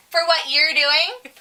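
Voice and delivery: high, slow mimicry of a prying customer; in-your-face scold. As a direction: draw it out as a rising, accusing question. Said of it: "She goes like this in my face".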